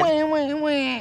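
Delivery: urgent. Acted. Stops the conversation abruptly.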